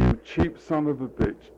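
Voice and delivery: imagined voice of the church. Retold or imitated. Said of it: "the church seemed to say".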